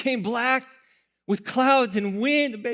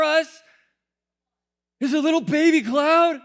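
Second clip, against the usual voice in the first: indignant complaint to God; 3 dB louder than usual. Pretend. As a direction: start muttering, end shouting at God. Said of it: "I would be like".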